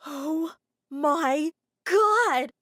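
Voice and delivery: very slow, loud drawn-out exclamation; shocked cry. Acted. Sarah reacts to the letter, slow loud shock. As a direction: stretch the shock out.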